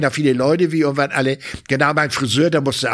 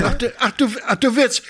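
mock surprise; 9 semitones higher than usual. Santa surprised by intern wish.

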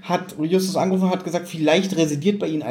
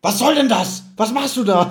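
snappy annoyed; 4 semitones higher than usual. Retold or imitated. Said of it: "So, so richtig, richtig arschig".

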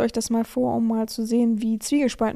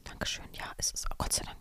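whispering; 15 dB quieter, faster than usual. Real, not acted. Relieved aside while reading.

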